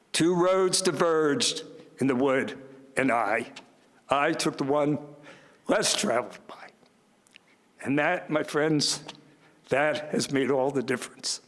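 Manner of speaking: measured recital with deliberate pauses; poem recitation. Acted. Speaker closing his speech with Frost, in measured poetry recitation. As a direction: recite it line by line, pausing between phrases.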